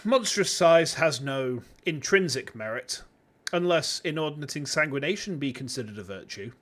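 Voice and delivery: pompous rich Southern businessman; southern oil tycoon voice. Acted. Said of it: "southern U S, um, oil tycoon voice".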